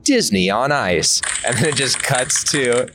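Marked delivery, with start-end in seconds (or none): 0.0-1.2 slow, drawn-out announcer welcome; grand announcer opening an ice show; gala show intro. Acted. Host pitching a sketch's gala opening, slow announcer. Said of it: "gala, like, intro".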